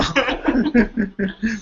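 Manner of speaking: high burst of laughter; amused laugh; real laugh. Real, not acted. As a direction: laugh at the absurdity. Laughs at own joke.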